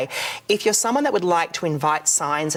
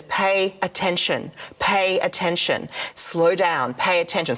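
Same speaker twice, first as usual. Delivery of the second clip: slow inner voice; slower than usual. Retold or imitated. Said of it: "And then the voice says".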